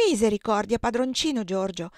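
put-on mild alarmed cry as the boy grabs the knife; frightened cry. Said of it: "esclamò spaventata". (grido spaventato, appena accennato)

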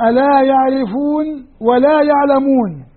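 "ألا يعرفون ولا يعلمون" drawn out slowly; slow explanatory reading. Shown as a demonstration. Teacher dictating the implied phrase, slowly. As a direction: spell out the hidden verb slowly. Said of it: "التقدير هكذا".

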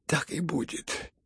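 soft and slow, almost a whisper; quiet hoarse reply. Acted. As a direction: answer faintly, barely there. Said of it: "тихо и хрипло, и чуть не шёпотом". (тихо, почти шёпотом)

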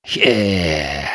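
low, soft gasp of effort; pained grunt. A narrator's reading. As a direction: groan after being knocked down. Hit by bullet, thrown against board.

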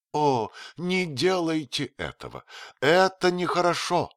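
высокий игривый женский голос; поддразнивая, свысока; кокетливая графиня. Acted. Rosen voiced by reader. (графиня кокетничает с принцем)

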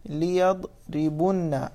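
"ليضربن" very slow, syllable by syllable; slow demonstration. Shown as a demonstration. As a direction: sound out "ليضربن" for the class. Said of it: "مثلًا".

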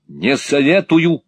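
high, loud, slow warning; shouted warning. A narrator's reading. Nicholas jumping on the step, shouting a warning. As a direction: cry out a threat, stretching it. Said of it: "крикнул Николас".

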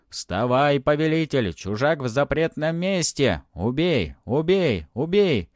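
high, loud cries rising in fervour; gleeful bloodthirsty shouting. A narrator's reading. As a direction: egg the master on to kill. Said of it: "Радостно и кровожадно хором стали кричать духи".

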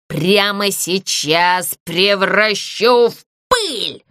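grand, slow threatening ghost; boastful ghost. Acted. Ghost threatens the puppet, slow and grand. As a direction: lord of the theatre threatening.

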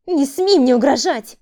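furious woman. A narrator's reading. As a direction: scream at him to stop. Woman shouts back. (яростный крик)

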